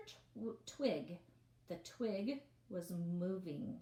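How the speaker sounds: lively read-aloud storytelling voice; story narration. A narrator's reading. Reads novel aloud to class.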